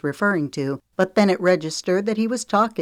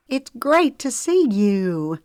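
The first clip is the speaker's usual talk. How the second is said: Zoe's line; 7 semitones higher, 3 dB louder, slower than usual. A narrator's reading. Zoe voiced in story.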